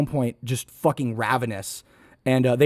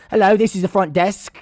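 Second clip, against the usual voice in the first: chirpy higher receptionist voice; hammed-up hotel phone greeting; bad front-desk impression; 5 semitones higher than usual. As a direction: put on a bad receptionist voice, pitched up. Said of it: "I'm just doing the bad".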